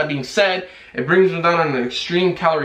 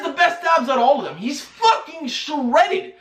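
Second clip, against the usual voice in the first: laughing; 6 semitones higher than usual. Real, not acted. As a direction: laugh through the praise. Marvels at the kid's abs.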